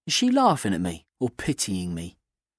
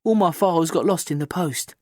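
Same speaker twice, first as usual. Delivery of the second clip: sweetly; 7 semitones higher than usual. A narrator's reading. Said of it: "she says sweetly".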